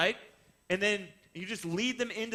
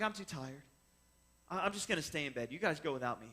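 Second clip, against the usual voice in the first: sleepy; 4 semitones lower, 6 dB quieter than usual. Retold or imitated. Jordan refuses again.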